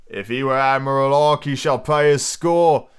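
drawn-out pirate proclamation; slow, forceful innkeeper's cry. Acted. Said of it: "cried Silver".

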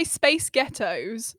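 drawn-out American accent; American accent trick. Shown as a demonstration. Showing the co-host the accent trick, American accent. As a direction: say it slowly in American to sound Glaswegian. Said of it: "it sounds like you're saying".

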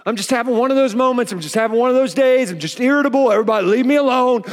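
hurried, mildly irritated outburst; mock irritability. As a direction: act out a testy plea to be left alone. Acted irritable person snapping at everybody.

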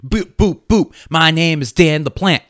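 silly voice. Acted. Silly character intro.

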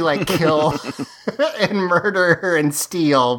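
chuckling through the words; laughing mock villain. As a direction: list the crimes through a light laugh. Laughs while voicing hypocritical villains.

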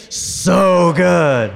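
big loud, high group shout; yelled from the gut. Real, not acted. Preacher leading the congregation's yelled response, loud. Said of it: "Yell it out".

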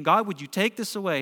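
imitating an earnest plea to God; mildly voiced desperate prayer; pleading. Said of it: "praying and pleading".

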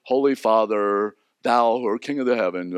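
a hint of a churchy prayer voice; mock pious prayer. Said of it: "Don't do it in a pious way".

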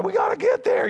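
high-pitched mock frantic cry; stressed. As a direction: act out a harried parent rushing everyone. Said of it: "you know, stressed".

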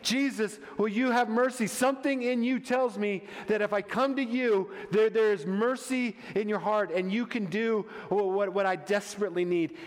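acted appeal from a desperate mother; desperate plea. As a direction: plead humbly for mercy. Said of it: "And she's desperate".

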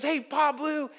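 put-on high, chirpy kid greeting; a lightly voiced bubbly camp girl; imitating a girl. Bubbly girl greets the pastor at camp, high kid voice.

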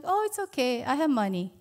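imitating her daughter. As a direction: mimic the daughter brushing off the offer.

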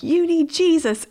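high, loud mock preachy jab; preachy scolding. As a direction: scold like a self-righteous kid. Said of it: "I was like".

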